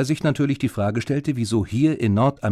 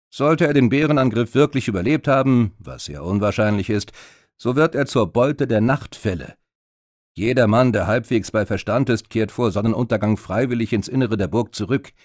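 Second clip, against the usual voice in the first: lightly voiced warrior, louder and grave; grim warrior Ragnar; 4 dB louder than usual. Ragnar tells Lucy about the wolves, a lightly voiced grim warrior. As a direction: warn of the night like an old soldier.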